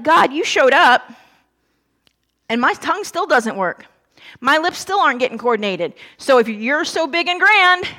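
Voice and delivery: passive-aggressive. Retold or imitated. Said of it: "that passive-aggressive comment".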